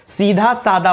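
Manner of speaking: सीधा सादा, breathy dha then plain da; corrected सीधा सादा as a firm answer. Shown as a demonstration. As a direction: keep द unaspirated in सादा. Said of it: "क्या होना चाहिए?".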